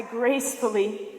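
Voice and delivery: "gracefully" stretched out, lingering on the word; stress on GRACEFULLY. Shown as a demonstration. Speaker telling how she agreed to the ride, gracefully stressed slowly. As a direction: draw out "gracefully" slowly for emphasis. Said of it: "emphasis on the word gracefully there".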